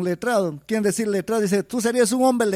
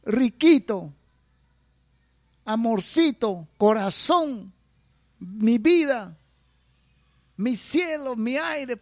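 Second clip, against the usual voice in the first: sweet, higher cooing voice; mock tender pet names; 4 semitones higher, slower than usual. Imitating how a partner once sweet-talked, higher and cooing. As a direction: coo each pet name like a lover.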